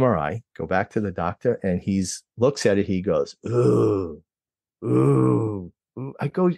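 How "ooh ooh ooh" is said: mock worried ooh, drawn out, in a voice unlike his own; doctor's worried ooh. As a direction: play the doctor frowning at the scan. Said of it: "your patient doesn't wanna hear ooh".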